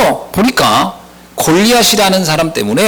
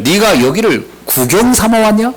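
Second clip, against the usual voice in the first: put-on mildly angry older brother, higher pitch; angry retelling; 5 semitones higher than usual. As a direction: scold a younger brother, acted lightly. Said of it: "분노하여 말하기를".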